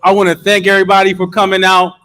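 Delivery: loud, high hyped address; rally speech. Real, not acted. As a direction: fire up the crowd.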